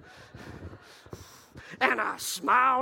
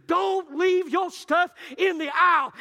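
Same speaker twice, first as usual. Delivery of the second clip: mock stern shout, higher; an old teacher scolds a boy for his stuff in the aisle, shouting; scolding teacher; 7 semitones higher, 5 dB louder than usual. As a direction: bark it like an angry old teacher. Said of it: "She said".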